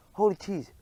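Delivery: a high, loud gasp of disbelief; shocked exclamation. A narrator's reading.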